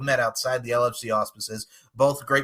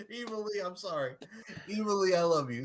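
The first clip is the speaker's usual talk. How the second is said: soft, much quieter apology; quiet aside; 6 semitones higher, 9 dB quieter than usual. Real, not acted. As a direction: say it under your breath.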